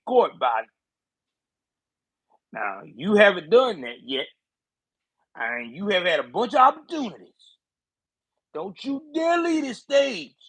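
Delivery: lightly voiced Jim Clyburn, stern and scolding; a hint of a gruff southern congressman laying down the law. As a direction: lean on Biden like an old party boss. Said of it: "let me get into my, uh, Clyburn voice".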